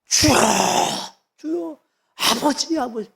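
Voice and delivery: high, drawn-out cry to the Lord; imitated wailing prayer. Preacher acting Hannah crying out to God, mock wailing. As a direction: act out Hannah's anguished plea, stretching each call. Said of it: "하나님께 기도하면서 막 통곡하는 거예요".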